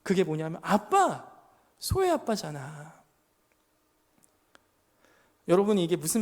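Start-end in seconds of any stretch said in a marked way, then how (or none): 0.6-3.0 daughter's words. Retold or imitated. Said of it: "소혜가 저의 마음을 후벼 파는 얘기를 했어요".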